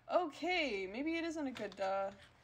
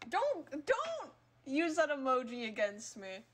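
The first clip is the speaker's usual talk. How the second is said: loud, raised-pitch scolding; mock scolding; 2 semitones higher, 4 dB louder than usual. Real, not acted. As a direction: tell the little pest off, half joking. Scolding a game character.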